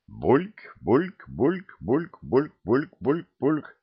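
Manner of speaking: rising glug, glug of pouring; gurgling pour. A narrator's reading. The oak pours two glugs into a mug. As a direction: mimic liquid glugging into a mug. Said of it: "бульками".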